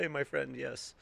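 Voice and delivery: light imitation of a Greek accent; lightly voiced Greek shop owner accent. Sub shop owner greets customer in mild Greek accent. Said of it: "the Greek guy in his accent said".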